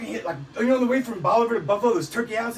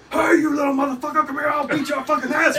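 retold dad's yell; 5 semitones higher than usual. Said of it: "He starts fucking screaming".

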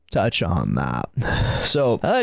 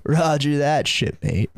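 mock sarcastic sergeant; 4 semitones higher than usual. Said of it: "He's like".

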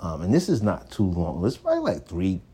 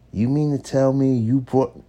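higher, disbelieving scold; incredulous scolding; 6 semitones higher than usual. Retold or imitated. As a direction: let her disbelief climb. Girlfriend scolding him over the bill.

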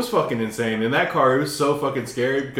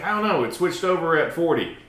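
imitating the driver; 6 semitones higher than usual. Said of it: "He's like".

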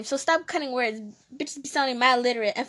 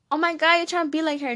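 indignant fans; 4 semitones higher, 4 dB louder, faster than usual. Retold or imitated. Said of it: "they're gonna say".

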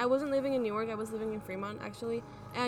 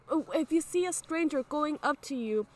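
mock scolding yell; 3 semitones higher than usual. Sister scolding her brother after escaping, higher slower scold. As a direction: scold the little brother, rising at the end. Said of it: "I started yelling at my brother".

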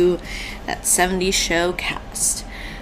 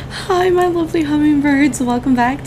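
bright greeting; 8 semitones higher, 4 dB louder than usual. Real, not acted.

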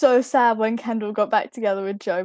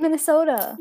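American accent; 4 semitones higher than usual. Shown as a demonstration. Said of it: "my American accent is so terrible".

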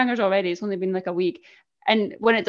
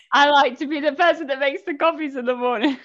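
higher-pitched mock quote; mimicked contestant; 5 semitones higher than usual. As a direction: send up a reality show line. Mimicking a reality show contestant.

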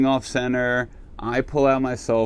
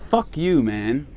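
a sharp "Fuck you", pitched up, then a dropped "man"; angry retort; 3 semitones higher than usual. Retold or imitated. Replying to the DJ instead of calmly, a mock snap. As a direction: snap it at him, not truly furious. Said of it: "No, instead it's".

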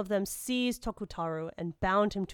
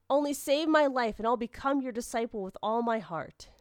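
desperate pleading; 4 semitones higher than usual. Acted. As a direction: promise anything to be spared. Captive begs for his life.

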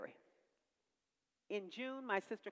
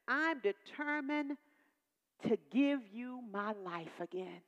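rising vow; slower than usual. Shown as a demonstration. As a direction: lift it up and stretch it out. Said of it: "I began to say".

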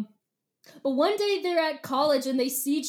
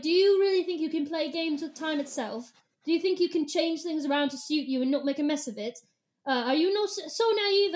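condescending British lecture; lightly haughty English accent; snooty British accent. Acted. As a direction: scold in lofty British English. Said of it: "I like snooty British Ellimist".

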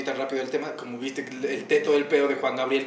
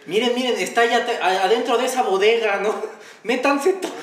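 mocking scheming voice; 9 semitones higher, 6 dB louder than usual. Acting out Sarita's scheme.

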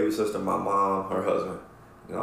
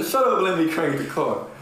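higher, louder irritated snap; annoyed snap; 8 semitones higher, 3 dB louder than usual. Retold or imitated. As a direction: tell the kid off. Snapping at nephew in car.

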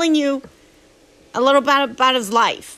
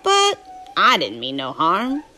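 Huck's southern drawl, telling his story; southern storytelling voice; 3 semitones lower than usual. Acted. Reading Huckleberry Finn aloud to a drowsy listener, southern narration. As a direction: read it as a folksy southern tale.

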